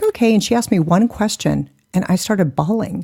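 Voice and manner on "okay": imitating therapist. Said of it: "And she was like".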